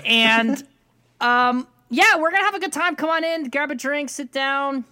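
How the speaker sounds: upbeat host intro; podcast opener. Pretend. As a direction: welcome listeners like a show host. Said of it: "can I do my opener".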